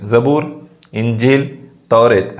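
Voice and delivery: short halt after each of "ज़बूर", "इंजील", "तौरेत"; slight comma pauses. Shown as a demonstration. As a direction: count off "ज़बूर", "इंजील", "तौरेत" as separate items. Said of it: "मामूली तौक़ुफ़ के लिए".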